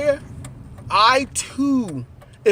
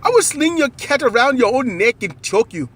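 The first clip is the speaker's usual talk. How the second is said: mock African accent; 3 semitones higher than usual. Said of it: "How y'all gonna do the, the African accent?".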